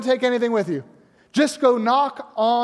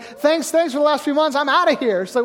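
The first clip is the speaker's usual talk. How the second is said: a higher, eager, lively voice for the healed mother; excited mother; 5 semitones higher than usual. Retold or imitated. Healed mother telling her daughter she is leaving, excited. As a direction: sound suddenly full of life and ready to go.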